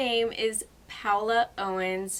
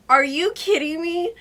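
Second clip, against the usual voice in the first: higher and louder, laughing disbelief; amazed disbelief; 7 semitones higher, 9 dB louder than usual. Retold or imitated. Retelling her reaction to the gifts, delighted disbelief. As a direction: squeal it in happy shock.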